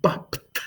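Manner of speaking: bapt whispered, with a crisp final p and t; final p sound. Shown as a demonstration. Teacher isolating the ending of bapt in a whisper. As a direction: clip bapt off hard on the closing p and t. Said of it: "that P sound at the end".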